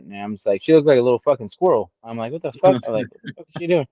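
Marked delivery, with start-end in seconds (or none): 2.3-2.8 high-pitched mock bafflement; incredulous quote, lightly acted; retold disbelief. Retold disbelief at baby's feat. 3.1-3.9 higher, baffled re-enactment; mock incredulous question, pitched up; retold disbelief. Retold disbelief at baby's feat.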